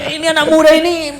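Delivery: amused disbelief spoken through a laugh. Real, not acted. Scolding youth with a laugh.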